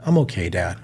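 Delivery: low, soft, subdued reply; downcast daughter. Retold or imitated. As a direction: imitate a child who is not really okay. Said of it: "You hear that tone in her voice".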